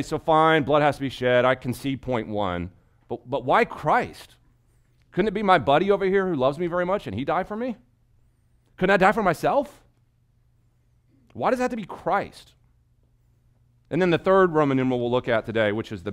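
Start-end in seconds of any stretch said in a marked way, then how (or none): 3.1-12.5 imagined objector. Retold or imitated. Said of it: "In other words, okay".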